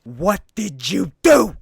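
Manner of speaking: mock accusing demand; accusing Eddie. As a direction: confront Peter sharply. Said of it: "Eddie's like".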